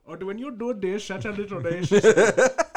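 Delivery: high, loud mock Asian accent; hammed-up Asian accent, pushed up in pitch. Shown as a demonstration. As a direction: exaggerate a caricatured Asian accent. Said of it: "Do an Asian one".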